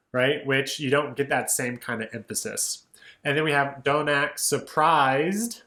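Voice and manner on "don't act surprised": slow, "surprised" stretched with a rise; stress on surprised. Shown as a demonstration. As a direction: lean into "surprised" to mark the rhyme. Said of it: "There's another rhyme".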